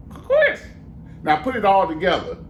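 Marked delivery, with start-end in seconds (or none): 0.1-0.6 very high squawky parrot speaking. Acted. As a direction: talk back as a cheeky parrot, very high. Parrot repeats syllable.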